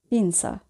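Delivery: "পিনসা" with the z said as a dental s; Italian z as s. Shown as a demonstration. Teacher models the Italian word for learners, "পিনসা" with z pronounced s. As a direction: say "পিনসা" with an s sound, not a j sound. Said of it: "আমরা দন্ত স এর মতো উচ্চারণ করব".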